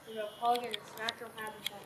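quiet, quick documentary voice; hushed nature documentary. Pretend. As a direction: hush it like a wildlife host.

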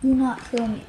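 lightly put-on British accent. Player pleading not to be killed, mock British accent. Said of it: "talking in a British accent".

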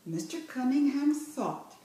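slow, clear reading of Mister Cunningham; slow clear model. Shown as a demonstration. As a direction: read Mister Cunningham slowly and clearly for the child. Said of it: "teacher models".

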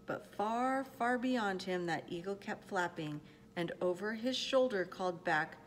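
measured, expressive picture-book reading; storyteller pacing out each phrase; story narration. A narrator's reading. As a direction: read it aloud to children, with care. Reads a picture book aloud.

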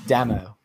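Damo with a short a, as in "dam-oh"; tentative mispronunciation. Acted. Host sounding out a listener's nickname, Damo said "DAM-oh". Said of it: "Did I say that right?".

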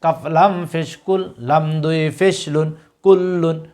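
teacher's recitation, letter by letter; slow spelling drill. Shown as a demonstration. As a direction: spell each letter slowly, then say the word thrice. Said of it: "আপনি আমাদের সাথে উচ্চারণ করুন". (ধীরে বানান করে তিনবার উচ্চারণ)

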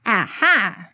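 lightly acted eureka moment; mock excitement. Farmer exclaiming at his clever idea, mildly excited. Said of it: "Ben exclaimed excitedly".

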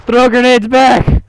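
high, slow, drawn-out yell; shouted order. Real, not acted. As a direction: bellow the command across the field. Yelling orders under fire.

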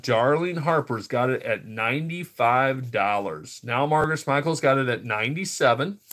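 rhythmic auction bid calling; steady, sing-out auctioneer patter; auctioneer's bid call. Real, not acted. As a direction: call out each new bid to the room. Calls live online auction bids.

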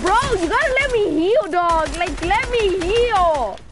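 building to a furious shout; angry yelling. Real, not acted. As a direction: scream it, rising in rage. Demanding heal, rising rage.

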